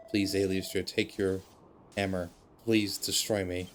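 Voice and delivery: a hint of a failing old machine, resigned; dying robot Noah.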